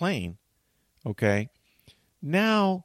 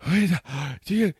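high, gasping words between breaths; breathless gasping; 8 semitones higher, 4 dB louder than usual. Retold or imitated. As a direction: gasp it out after sprinting.

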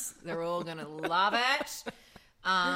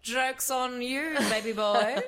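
loud, high, slow mock triumph; gloating comeback; 6 semitones higher, 8 dB louder, much slower than usual. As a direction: draw it out big and high, hammed-up gloating.

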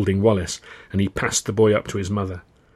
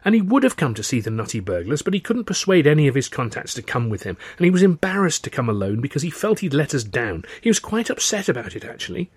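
slightly raised, insistent woman's voice; Tilly defending someone; 6 semitones higher than usual. Acted. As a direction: explain defensively, pitch lifting at the end.

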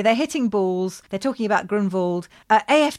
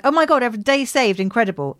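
mock amazement; 4 semitones higher than usual. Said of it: "And we're like".

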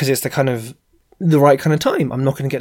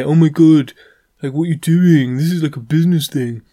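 mock outrage; 2 semitones higher, 5 dB louder than usual. Mocking scandalised LinkedIn users.

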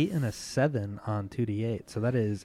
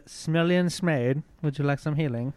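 playful; 4 semitones higher, 4 dB louder than usual. Acted. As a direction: stretch the silly name. Cleric playfully mangles the name.

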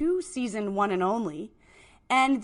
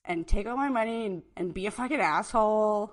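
Sarma, resentful. Acted.

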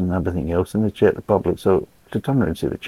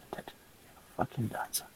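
whispered triumph; 2 semitones higher, 21 dB quieter than usual. Real, not acted. After killing the moth.

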